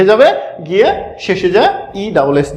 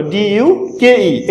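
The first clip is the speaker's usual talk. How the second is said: slow spelling; much slower than usual. Shown as a demonstration. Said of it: "দেখো ডাচেস".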